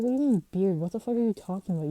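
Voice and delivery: annoyed, retold clapback; indignant retort. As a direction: throw back an incredulous question, then speed up. Retells angry comeback to insulting kid.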